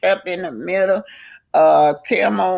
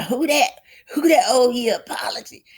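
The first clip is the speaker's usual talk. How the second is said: high, indignant questioning; challenging; 7 semitones higher than usual. Acted. Destiny asking Tisha who owes her, high and challenging. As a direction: demand a name, pitched up.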